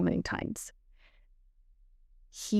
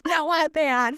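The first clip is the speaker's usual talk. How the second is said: higher-pitched, laughing show of being mad; mock mad; 8 semitones higher, 3 dB louder than usual. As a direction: play up being mad, half amused. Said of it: "now that I'm mad".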